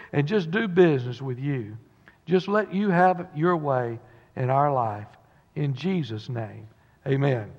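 earnest prayer, quiet at the close; pulpit prayer. Acted. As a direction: pray for the congregation, sincere. Leads opening prayer.

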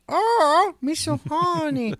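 high moaning woman voice; woman in passion. Retold or imitated. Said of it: "I heard it as a woman in passion".

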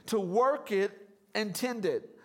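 "work" and "tend" each weighted; stress on work, tend. Real, not acted. Preacher reading Genesis to congregation, stressing "work" and "tend". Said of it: "I'm emphasizing those two words".

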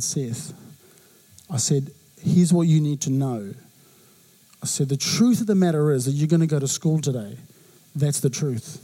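low, firm fatherly laying down the law; a hint of a stern father eyeballing his son; dad telling son he's going to school, low and stern.

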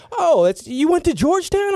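high, laughing surprised question; delighted tipsy commissioner. Retold or imitated. Tipsy Tagliabue delighted by the kid's hat, high laughing question. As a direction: gush over the G on his hat. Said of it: "he's like".

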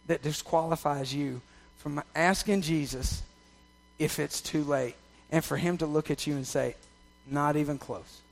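soft, tender reassurance; soft, intimate close. Acted. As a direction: bring it down almost to a hush.

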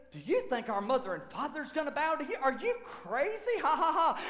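incredulous jeer breaking into a fake laugh; scornful mockery. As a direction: act out scoffing brothers, rising on the question. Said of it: "laugh at him in scorn and ridicule".

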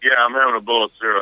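chewing while answering; mouth full. Real, not acted. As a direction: talk through a bite of cereal. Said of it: "Are you eating right now".

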